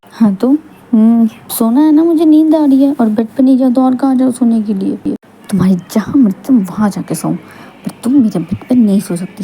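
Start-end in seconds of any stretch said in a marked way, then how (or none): 0.1-5.1 higher and louder, sleepy but stubborn; pushy, whiny claim to sleep here; loud insistence. Acted. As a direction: demand her side of the bed. Wife insists on the bed.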